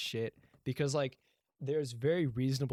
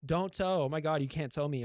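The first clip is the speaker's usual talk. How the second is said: mildly hammed-up pleading, higher at the start; mock outraged car owner, voice raised a little; panicked protest; 4 semitones higher than usual. Car owners beg the tow crew, mock panicked protest.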